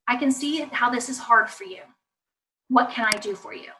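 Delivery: soft, unhurried reassurance; gentle empathy. Shown as a demonstration. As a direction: offer help quietly and patiently. Models gentle reply to child.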